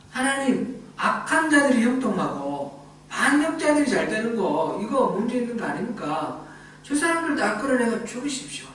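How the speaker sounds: a lightly voiced desperate plea to God; pleading prophet. Jeremiah pleading with God against his persecutors, a touch of desperation. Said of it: "이렇게 이제 하나님한테 호소한 거예요".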